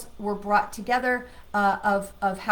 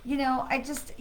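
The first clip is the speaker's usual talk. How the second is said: higher, hesitant mock apology; wishy-washy apology; 4 semitones higher than usual. Shown as a demonstration. Coach shows listeners how not to apologize, wishy-washy. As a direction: make a weak, excusing apology as a bad example. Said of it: "we are not saying it like".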